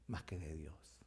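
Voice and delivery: hushed whisper for emphasis. Acted. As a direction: drop to a breath on God. Whispers key phrase.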